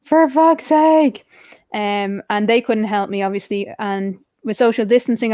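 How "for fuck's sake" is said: slow, drawn-out exasperated curse; mildly exasperated groan of frustration. Retold or imitated. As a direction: retell it fed up, stretching each word. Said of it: "I was like".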